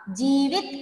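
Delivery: जीवित with जी stressed and वि short and light. Shown as a demonstration. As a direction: lean on जी, then a quick light वि. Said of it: "वी छोटा सा कहा मैंने, हल्के से कहा".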